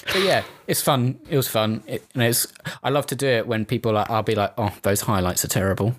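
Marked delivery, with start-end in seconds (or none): 4.6-5.9 sassy. Retold or imitated. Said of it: "Just really sassily".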